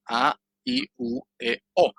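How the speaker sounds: A, I, U, E, O as separate pure Spanish vowels, pitched high; pure vowel demo. Shown as a demonstration. Teacher showing students the first row of pure vowels, pure vowel demo. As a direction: sound out A, I, U, E, O one by one, high-pitched. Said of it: "las vocales puras".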